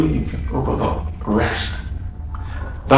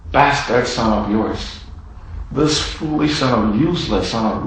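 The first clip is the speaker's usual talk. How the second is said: sneering contempt; 2 semitones lower, 4 dB quieter than usual. Acted. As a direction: spit out the names with disdain. Brother sneering at the lost son.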